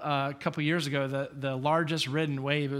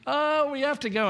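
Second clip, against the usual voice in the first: very high, louder imitation of a wailing toddler; mock bawling child; 12 semitones higher, 4 dB louder than usual. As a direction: whine it like a kid who won't leave the beach. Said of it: "and bawling".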